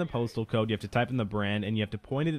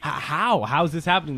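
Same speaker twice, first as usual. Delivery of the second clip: higher-pitched bewildered disbelief; mock freaking out; 6 semitones higher, 3 dB louder than usual. Retelling classmates' panic in the next room, mock freak-out. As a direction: imitate a baffled, panicking class. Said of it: "everybody's freaking out".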